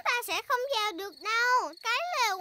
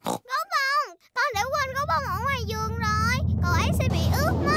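louder and louder, racing at the end; alarmed cry; 5 dB louder than usual. Acted. Peppa crying out that teddy will get wet, building alarm. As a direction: panic for the teddy left in the rain.

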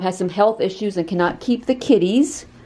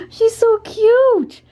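much higher, very slow gushing coo; 4 dB louder, much slower than usual. Real, not acted. About the cat Babsy, slow high baby-talk gush. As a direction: stretch out the words, melting over her.

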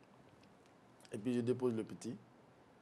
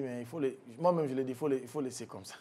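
laughing; 2 semitones higher, 4 dB louder than usual. Real, not acted. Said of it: "Sérieusement".

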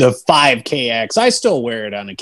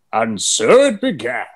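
slow, grand Ian McKellen ripoff; epic fantasy narrator; 3 semitones lower than usual. Shown as a demonstration. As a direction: intone it like a wizard narrating. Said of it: "a hacky Ian McKellen, Patrick Stewart kind of ripoff".

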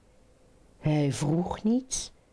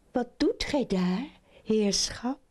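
higher-pitched lady frog; 4 semitones higher than usual. Acted. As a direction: question him in a raised voice. Lady frog questions weeping suitor. (hogere stem van de kikkerdame)

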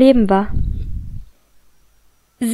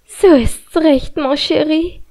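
slow, purring seductive coo; cooing seductively; 4 semitones higher, slower than usual. Acted. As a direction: coo it like a temptress. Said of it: "gurrte sie".

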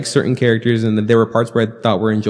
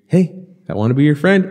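mock awkward; 5 semitones higher than usual. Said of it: "they do their weird".

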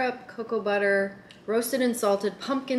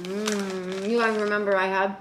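talking while chewing; mouth full; slower than usual. Real, not acted. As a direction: speak through a mouthful of puffs. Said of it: "sorry, I'm eating with my mouth".

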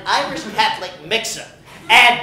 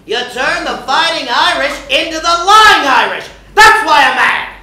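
louder, punchy yell; angry outburst; 4 semitones higher, 5 dB louder than usual. Acted. Regis scolding the linebacker, angry outburst. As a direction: let the anger burst out. Regis yelling his grievance.

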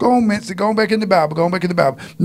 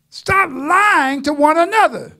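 half laughing preaching cry; 5 semitones higher than usual. Real, not acted. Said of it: "I just have to say it like that".

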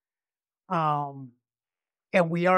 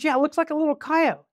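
imitated woman; 9 semitones higher than usual. Female voiced in drug deal story.

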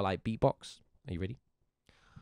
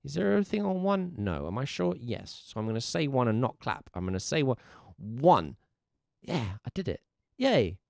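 thinking aloud learner. Retold or imitated. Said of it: "you look at it and you go".

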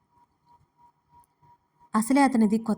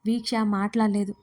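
usual speaking voice

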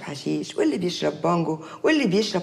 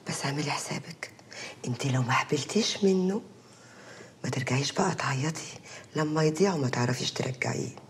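ominous low whisper; 6 semitones lower, 6 dB quieter than usual. Acted. Aunt warns niece ominously.

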